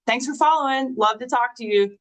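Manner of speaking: lightly voiced salesy pitch; pushy telemarketer. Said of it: "bad telemarketer".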